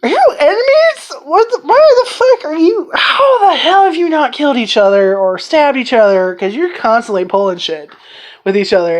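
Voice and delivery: high, disbelieving squeal; incredulous outsider. Retold or imitated. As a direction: gasp at how mean they are to each other. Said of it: "you're like".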